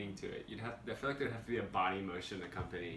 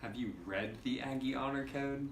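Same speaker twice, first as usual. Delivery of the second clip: "read" held and leaned on; stress on "read"; 3 semitones higher than usual. Shown as a demonstration. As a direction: put the weight on "read". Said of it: "different inflection on the words".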